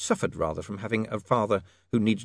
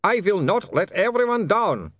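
put-on slow, louder accented vow; mild scream; 11 semitones higher, 5 dB louder than usual. Otto resisting the urge, a mild scream. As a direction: force out the vow, straining. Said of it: "he screamed".

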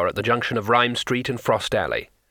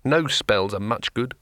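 sighing. Acted. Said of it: "he sighed".

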